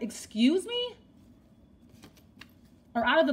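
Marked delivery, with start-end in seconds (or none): 0.0-1.0 incredulous, higher; surprised. Retold or imitated. Querent hearing an out-of-the-blue proposal, incredulous and surprised. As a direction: pitch it up in disbelief, a little mocking. Retold reaction to sudden proposal.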